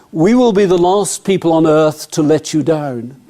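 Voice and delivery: slow, earnest undertaker's pitch; undertaker's slogan. Retold or imitated. Undertaker giving his memory hook, slow and solemn. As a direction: deliver the slogan slowly, dead serious. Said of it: "his memory hook, which was".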